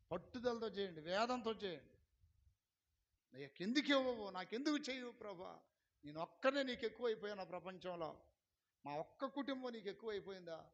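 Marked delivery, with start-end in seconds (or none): 3.4-10.7 imitating a pleading cry to God; anguished prayer. Preacher showing how to pray with anguish, pleading. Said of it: "ఇట్ట వేదంతో చేయండి".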